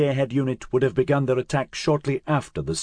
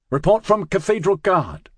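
higher, louder voice through static; muffled radio voice; 7 semitones higher, 4 dB louder than usual. A narrator's reading. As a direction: read it like a crackling radio call. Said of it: "said a muffled voice, lashed by static".

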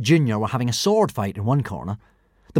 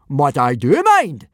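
firm, louder, slow and higher; loud objection; 4 semitones higher, 6 dB louder, slower than usual. A narrator's reading. Teacher stopping the bully's attack, loud and firm. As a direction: lean hard on each word.

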